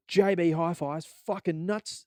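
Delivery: slow ad-style read; catalog hype. Retold or imitated. Reading a JB Hi-Fi catalog, mock ad slowly. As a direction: sell it like an ad. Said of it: "their catalogs are like".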